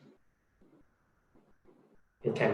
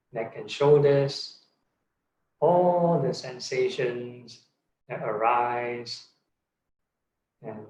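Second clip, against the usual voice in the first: guided meditation. Real, not acted. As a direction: guide them unhurriedly through the body. Leads a meditation.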